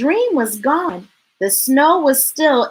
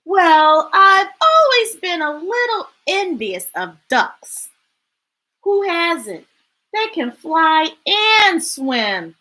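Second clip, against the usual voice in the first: characters talking; 4 semitones higher than usual. Acted. Characters chatting.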